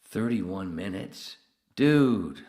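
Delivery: loud, slow disbelieving cry; shocked. Real, not acted. Streamer shocked at the stream time, loud disbelief. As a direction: gasp at how short it was.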